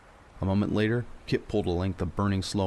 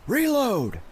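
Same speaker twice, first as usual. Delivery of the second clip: high ringing yell, much louder; clarion shout; 5 dB louder than usual. Acted. Captain shouts to his crew to reload, ringing. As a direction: belt it out like a bugle call. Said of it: "Carver's voice echoed like a clarion".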